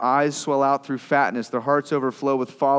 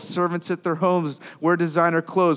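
raised, louder complaining voice; a hint of bitter envy; psalmist's complaint; 4 semitones higher, 3 dB louder than usual. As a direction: voice the envious psalmist griping.

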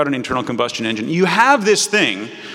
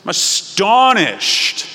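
astonished; 4 semitones higher, 3 dB louder, much slower than usual. Retold or imitated. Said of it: "He doesn't say".

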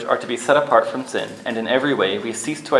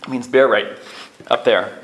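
urgent warning; 2 semitones higher than usual. Retold or imitated. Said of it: "And Dwight cautions him".

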